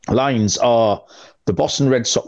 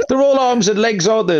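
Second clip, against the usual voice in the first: high croaky frog voice; 9 semitones higher than usual. Pretend. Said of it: "I'm doing my best frog impression".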